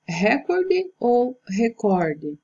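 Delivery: recorde as RE-corde versus re-COR-de, slow; recorde with the stress shifted between the takes; stress contrast. Shown as a demonstration. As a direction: slowly set recorde against recorde. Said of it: "A forma correta é recorde".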